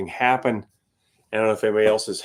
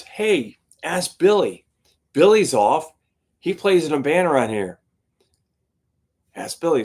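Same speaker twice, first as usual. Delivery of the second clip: higher, bright helpful suggestion; eager club owner; 5 semitones higher, 4 dB louder than usual. Retold or imitated. Club owner suggesting Billy to the band, eager and higher. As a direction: pitch the idea to the band. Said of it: "the club owner goes".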